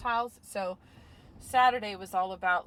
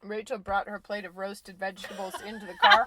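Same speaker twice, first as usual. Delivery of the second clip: words round a bite of food; chewing and talking with a laugh; mouth full; 2 semitones lower, 4 dB louder than usual. Real, not acted. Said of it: "my mouth is full".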